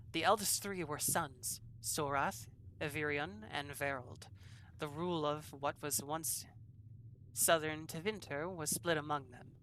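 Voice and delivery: put-on imperfect French accent, reading aloud; lightly attempted French-accented scholar. Player reads scholar's history of Andraste's sons, attempted French accent. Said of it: "seven out of ten for your accent".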